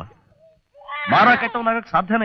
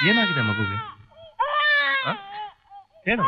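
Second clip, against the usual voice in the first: tearful; 6 dB quieter than usual. Acted. Uncle asking the crying girl, tearful. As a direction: ask gently while choking up.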